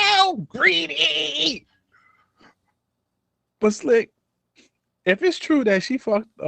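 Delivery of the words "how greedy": very high, drawn-out British wail; mock British accent. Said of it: "in my British accent".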